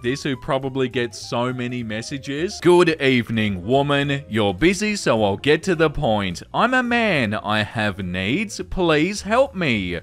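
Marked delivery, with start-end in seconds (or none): 2.6-10.0 creepy suitor voice. Acted. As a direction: ham up a pushy creep's message. Reading creepy suitor's message aloud.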